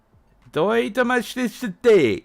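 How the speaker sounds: "どういたましてして" said fast with jumbled syllables; mock mangled Japanese. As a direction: parody the clipped phrase. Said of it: "that's what it sounds like to me".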